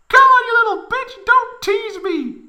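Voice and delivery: high, loud falsetto squeal; squealing Tifa. A narrator's reading. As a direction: squeal it in strained frustration. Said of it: "Tifa squealed".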